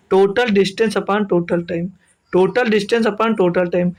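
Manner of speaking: very slow, word by word, like dictating a formula; slow dictation. Shown as a demonstration. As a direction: spell the formula out slowly so students can write it. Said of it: "teacher dictates formula slowly". (धीरे-धीरे लिखवाते हुए)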